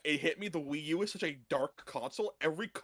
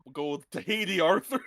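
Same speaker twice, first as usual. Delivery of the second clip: put-on Dutch van der Linde accent; 5 dB louder than usual. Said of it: "in a Dutch Vanderlyn voice".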